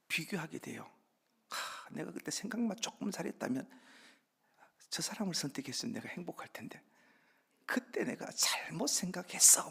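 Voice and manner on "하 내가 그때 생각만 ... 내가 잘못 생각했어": hammed-up sighing lament, higher pitched; mock regret. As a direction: lament a past choice in mock dismay. Voices spouse regretting marriage choice. (과장되게 후회하는 한탄 흉내)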